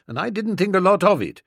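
ordinary delivery, nothing marked

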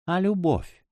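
high, gentle question; a voiced hint of a tender whisper; tender murmur. A narrator's reading. Woman speaking into his ear, tenderly murmured. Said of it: "нежный голос шепнул ему на ухо".

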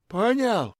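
высоко, с нажимом; дожми вопросом; давящая бомжиха. A narrator's reading. Бомжиха давит на бомжа. (бомжиха давит на бомжа, с нажимом)

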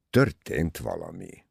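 slow, low "történt valami"; grave confirmation. A narrator's reading. Poirot answering that something has happened, grave. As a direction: confirm it weightily, drawn out.

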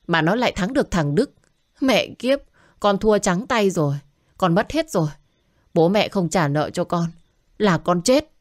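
a gambler cursing his loss, voice climbing; agitated son. Acted. Drunk son ranting to his parents about his football betting loss. Son raging over lost bet.

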